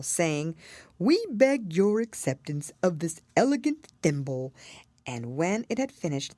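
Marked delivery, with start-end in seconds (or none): 1.0-4.5 lightly voiced, mock-ceremonial dodo; a touch of pomp in a bird voice; solemn dodo. A narrator's reading. Dodo presents the thimble to Alice, mildly solemn. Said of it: "solemnly presented".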